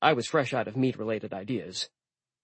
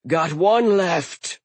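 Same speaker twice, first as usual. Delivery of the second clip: yelled; 7 semitones higher, 6 dB louder, much slower than usual. Acted. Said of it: "Eldir yelled".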